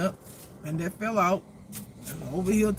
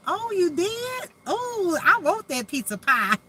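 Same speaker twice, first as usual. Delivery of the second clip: put-on Southern accent; 11 semitones higher, 4 dB louder than usual. Host voicing a pie-loving Southern guest, high mock Southern gush. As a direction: squeal it like a delighted Southern lady. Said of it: "I just love that Southern accent".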